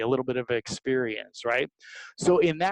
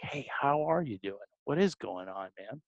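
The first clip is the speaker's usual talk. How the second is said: genuine check-in; 2 semitones lower, 7 dB quieter than usual. Shown as a demonstration. Salesman checking in on a scared client, soft and sincere. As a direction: ask like you truly care how they are. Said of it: "just genuinely be like".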